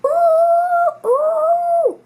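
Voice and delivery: high drawn-out moan of pain; a hippo groaning with a toothache; very high aching moan. A narrator's reading. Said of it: "he moaned".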